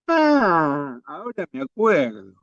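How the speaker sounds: soft, drawn-out realization; hablando solo. Acted. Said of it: "hablando solo". (cayendo en la cuenta, en voz baja)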